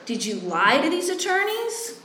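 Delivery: high incredulous grilling with a laugh; mocking interrogation. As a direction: poke holes in her story. Mock-quizzing the client.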